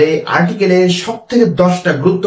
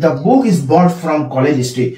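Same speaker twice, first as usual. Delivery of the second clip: slow dictation; much slower than usual. Shown as a demonstration. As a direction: read the road example word by word. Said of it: "কিন্তু".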